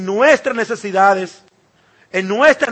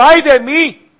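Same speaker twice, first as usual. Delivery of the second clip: louder, higher cry of woe; anguished cry; 6 semitones higher, 7 dB louder, slower than usual. Retold or imitated. Isaiah cries out before the holy God, anguished. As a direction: cry out in dread of your own sin. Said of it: "Isaías que gritó".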